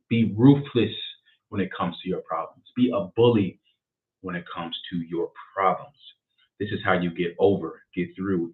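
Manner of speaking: deliberate, paused reading with punched key words; emphatic book reading. Acted. Host reads his chosen page to viewers, emphatic and measured. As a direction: read it out like a motivational charge.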